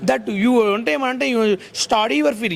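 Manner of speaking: slow, drawn-out mock broken English rant; a slow mock English speech, imitating grandpa. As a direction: parody the old man's slow broken English. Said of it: "నువ్వు కాలపాష కావచ్చు".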